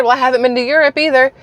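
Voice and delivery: lightly mocking high voice, quoting her; mocking imitation. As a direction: parrot her answer with mild mockery. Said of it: "That was what that woman said".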